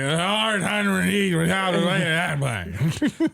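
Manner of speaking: put-on Newfoundland accent. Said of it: "so then you're like".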